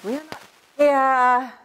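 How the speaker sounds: put-on slow, high, loud haughty British accent; mock a prim, disdainful British accent. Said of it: "he said in a quite disdainful British accent".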